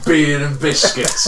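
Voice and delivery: slow, amused announcement of the name; drawn out through a laugh; laughing, savouring the name. Real, not acted. Mates joking about a pub name, said slow with a laugh.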